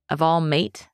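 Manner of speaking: tentative bit of British; testing out a British accent, unsure. Shown as a demonstration. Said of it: "a British accent".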